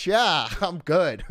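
slow, drawn-out mock assurance; strained reassurance. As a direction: claim to be fine while utterly spent. Acts pretending fine while wrecked.

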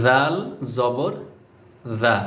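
জাল জবর জা with the tongue tip on the upper front teeth; careful pronunciation. Shown as a demonstration. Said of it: "সবসময় মনে রাখতে হবে".

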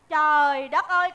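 slow, low "good heavens"; exasperated groan. Acted. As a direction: drag it out, fed up. Exasperated by yet another text message.

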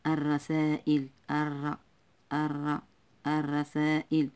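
الرسائل with no l, straight into a rolled double r; silent lam. Shown as a demonstration. Teacher showing the silent lam, الرسائل with long trilled r. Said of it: "هذه اللام لا تنطق".

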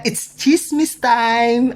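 slow, drawn-out announcement; gossip time. Retold or imitated. Announcing gossip time to the guests, slow and drawn out. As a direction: savour every word. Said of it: "Sabi niya".

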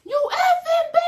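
very high, loud screeching yell; retold scream. Punched classmate screaming at me, shrill mock yell. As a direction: screech it like she's going crazy. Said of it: "she screaming so loud".

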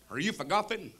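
lightly voiced Southern goober; a hint of a goofy Texas driver. Driver greeting his passenger at the airport, lightly goobery. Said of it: "he goes".

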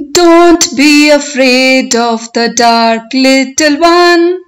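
poem recitation. Shown as a demonstration. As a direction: recite it for learners, stretching the words, lifting line endings. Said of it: "I will recite line by line".

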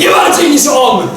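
high-pitched shouted comeback; angry retort. Acted. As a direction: shout back in a quarrel. Shouting back in acted quarrel. (podniesiona, zła riposta)

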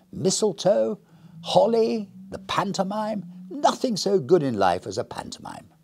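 bright, high, hearty stranger; jolly visitor voice. Acted.

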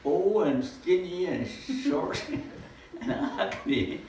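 slow, laughing self-mockery. Real, not acted. Speaker mocking his own looks to the audience, slowly laughing. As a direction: drag it out, chuckling at yourself.

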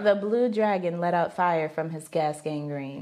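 deadpan challenge read. Real, not acted. Repeating the phrase for the guessing partner, deadpan. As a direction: recite it low and evenly.

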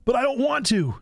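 high-pitched mock protest; whiny, acted objection; crying out. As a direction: cry it out in a hammy, high voice. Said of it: "Nolan cried".

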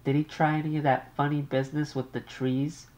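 an anxious mother on the line. Acted.

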